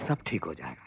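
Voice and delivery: low, soft mock quote of her comfort; mocking her words. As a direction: sneer her promise back. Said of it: "कहती है". (उसकी तसल्ली की धीमी, नकली नकल)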